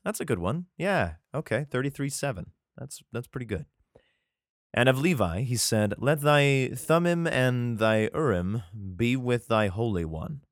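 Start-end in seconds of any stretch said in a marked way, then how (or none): 4.7-10.4 measured, solemn Bible reading; scripture reading. Acted. Reads scripture aloud.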